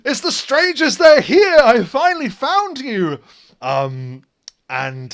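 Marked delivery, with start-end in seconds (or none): 0.0-3.2 high, loud, overjoyed call; excited NPC shout. Acted. Brigand of West calls out to the strangers, high, loud and overjoyed. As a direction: yell with delight at finding them. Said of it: "pulls in front and says".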